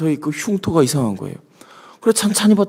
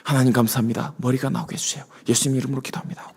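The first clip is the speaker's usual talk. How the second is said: soft, fast murmured prayer with eyes closed; hushed quick prayer; 2 semitones lower, 8 dB quieter than usual. Retold or imitated. Young believer praying alone for his hair, hushed and quick. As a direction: rattle off a quiet little prayer. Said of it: "눈 감고 기도하기 시작했어요".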